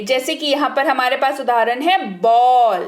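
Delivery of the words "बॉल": बॉल with a long "aw" vowel; pronunciation demo. Shown as a demonstration. Teacher giving learners an example, pronunciation demo of बॉल. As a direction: stretch बॉल out as "bawl". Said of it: "कैसे इसका उच्चारण करेंगे".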